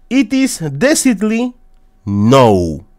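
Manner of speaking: high mystic pronouncement; oracle voice. Pretend. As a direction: announce the verdict like an oracle. Reading the magic eight ball.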